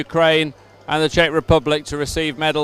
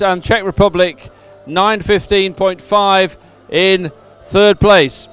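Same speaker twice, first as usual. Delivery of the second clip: measured, emphatic results read; results announcement; 2 semitones higher than usual. Real, not acted. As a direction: announce each placing clearly to the crowd. Reads out race results.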